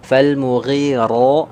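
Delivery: slow "Fal mughiru", thick tongue-root ru; heavy ru. Shown as a demonstration. Teacher repeating the correct recitation slowly. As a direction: stretch it out, ru full and heavy. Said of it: "huruf ra-nya tafkhim tebal".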